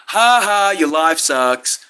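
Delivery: loud mock laugh into a slow jeer; retold loud taunt. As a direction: jeer it loudly, dragging out the insult. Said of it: "six times as loud".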